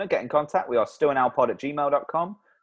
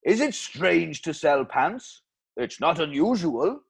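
slow Welsh ad sign-off; Welsh accent; 4 dB louder, slower than usual. Acted. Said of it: "Bloody Welsh accent again".

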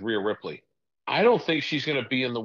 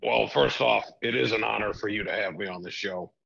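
lightly voiced arrogant boss; a hint of a smug, scheming tycoon; Vince McMahon impression. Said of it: "Mister McMahon".

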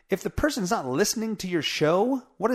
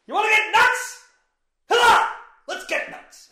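much higher and louder, unhinged yelling; manic movie impression; 7 dB louder than usual. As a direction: explode into a crazed shouted dare. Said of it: "who needs a sound machine when you got impressions like me".

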